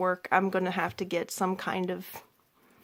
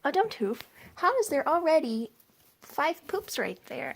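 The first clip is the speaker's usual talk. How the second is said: surprised; 8 semitones higher than usual. Real, not acted. Spots fresh poops in cage.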